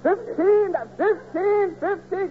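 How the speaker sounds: greedy high repeated exclamation; light up at the bigger offer; excited. Acted. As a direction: judge tempted by a larger bribe, excited. Judge hears bigger bribe offer.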